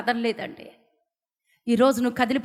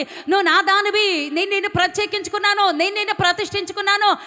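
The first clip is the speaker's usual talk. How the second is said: voice of God; 4 semitones higher than usual. Acted. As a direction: speak as God calling his beloved, lifted and tender. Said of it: "ఆ స్వరం నాకు బాగా వినపడుతుంది". (దేవుని స్వరం, ప్రేమగా)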